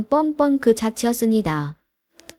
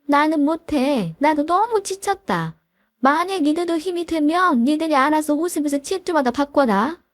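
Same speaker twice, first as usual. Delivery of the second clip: lightly acted weary complaint, slightly raised voice; self-pitying mother-in-law; 3 semitones higher than usual. Mother-in-law telling daughter-in-law to take over, mildly aggrieved. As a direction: plead exhaustion as a put-upon mother-in-law, mildly.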